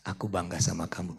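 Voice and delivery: tender praise. Shown as a demonstration. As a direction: say it gently to your wife. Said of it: "coba suami lo begini".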